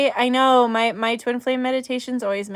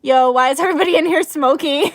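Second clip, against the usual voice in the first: crying; 5 semitones higher, 7 dB louder, faster than usual. Real, not acted. Joking through tears.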